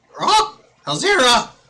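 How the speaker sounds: very high-pitched, shrill shouted call. Voicing a character calling through a portal: Selvor yelling. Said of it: "you hear him yell".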